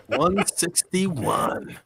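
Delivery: breathless host intro, gasping a little; out of breath while talking. Real, not acted. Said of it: "I'm out of fucking breath".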